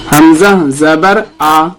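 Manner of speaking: ہمزہ زبر آ, slow spelling, آ short and soft; soft quick zabar. Shown as a demonstration. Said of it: "اس طرح سے نرم آواز کے ساتھ جلدی ادا کریں گے". (نرم آواز میں جلدی آ)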